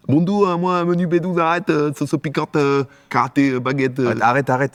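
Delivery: high, hammed-up fake Asian accent; mock Asian accent. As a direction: push the caricature Asian accent way up in pitch. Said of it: "je le fais très bien".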